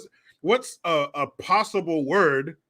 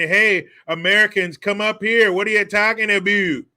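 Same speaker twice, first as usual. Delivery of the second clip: raised, louder mock invitation; hearty welcome call; 4 semitones higher, 5 dB louder than usual. Canada supposedly inviting Americans in, hearty mock welcome. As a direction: put on a breezy call-out.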